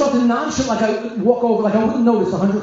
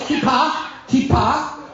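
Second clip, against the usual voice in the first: slow spelled-out word; 4 semitones higher, much slower than usual. Shown as a demonstration. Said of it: "You know what a kippah barzel is".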